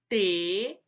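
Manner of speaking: "telhado" split te-lha-do; syllable by syllable. Shown as a demonstration. Teacher answering how to separate it, "telhado" in separated syllables. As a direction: pause after each syllable of "telhado". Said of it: "Como que eu separo o telhado".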